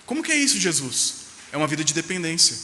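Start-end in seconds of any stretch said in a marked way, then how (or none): 0.1-1.1 high-pitched, curious asking of Jesus; eager question. Pretend. Believer asks Jesus how to live, high eager question. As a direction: ask Jesus like an eager disciple.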